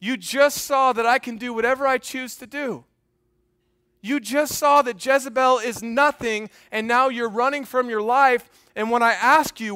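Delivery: a preacher voicing God at his wit's end; frustrated God. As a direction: let God's frustration push the voice up. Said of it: "imagine the frustration of God saying".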